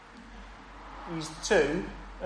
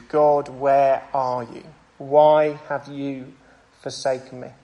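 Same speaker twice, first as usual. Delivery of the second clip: slow, drawn-out anguished plea; a slow, mild cry of abandonment; pleading cry to God; slower than usual. Retold or imitated. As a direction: lament it slowly, aching. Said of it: "Say along with Jesus".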